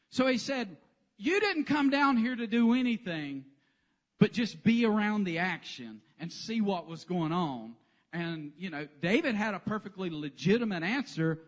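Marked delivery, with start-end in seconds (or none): 1.2-7.8 louder, accusing big-brother rebuke; angry big brother. Retold or imitated. Angry older brother accusing David, louder. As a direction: scold him like a fed-up older brother.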